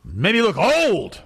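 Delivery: a slow, high, drawn-out quote from mom, only lightly voiced; lightly acting out an old mother's complaint. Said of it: "She goes".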